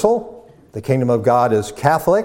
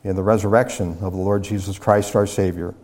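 subdued, reverent prayer voice; 2 semitones lower than usual. Real, not acted. Leads a prayer.

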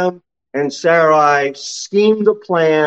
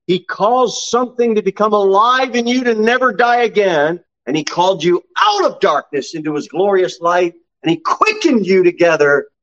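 raised-pitch, rolling sermon delivery; fervent preaching; 5 semitones higher than usual. Acted. Preacher telling believers they were made alive, fervent. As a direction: proclaim it fervently to the congregation. Preacher builds on new life.

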